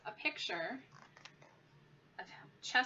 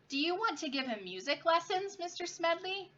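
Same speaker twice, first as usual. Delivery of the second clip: put-on eager boy; 8 semitones higher than usual. Boy Mario voiced, eager.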